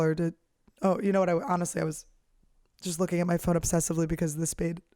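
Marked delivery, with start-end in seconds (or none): 2.8-4.8 hiccuping. Real, not acted. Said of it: "I'm hiccuping and burping".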